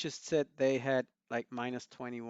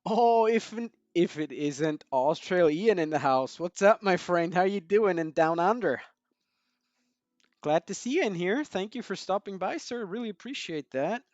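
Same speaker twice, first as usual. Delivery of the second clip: loud, higher, hammed-up Australian accent greeting; 5 semitones higher, 10 dB louder than usual. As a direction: boom out a mock Australian welcome. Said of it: "that's where I will stop with my Australian accent".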